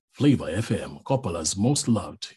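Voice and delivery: low station-slogan read; radio imaging voice. Shown as a demonstration. Voiceover artist shows a Zambian station tagline, radio imaging voice. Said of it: "that's radio imaging".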